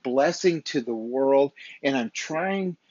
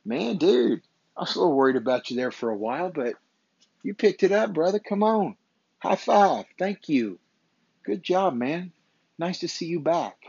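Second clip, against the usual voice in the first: cheering buddy; 4 semitones higher than usual. Retold or imitated. Friends greeting his comeback, cheerful and upbeat. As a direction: cheer him on like a proud friend. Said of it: "people who know me are now gonna go".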